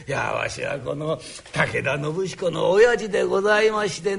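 put-on old father voice. Father greets the boss.

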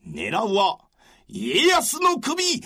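stern general rallying his men, rising to a shout; commanding warlord. Acted. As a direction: command the troops, build to a roar. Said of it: "こう言い放つと".

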